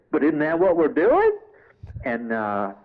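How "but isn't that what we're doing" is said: devil character. Retold or imitated.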